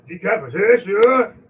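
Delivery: loud eager exclamation; excited shout. Acted. GM announcing the beheading, shouting with glee. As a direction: shout it like a battle call. GM echoes player's choice.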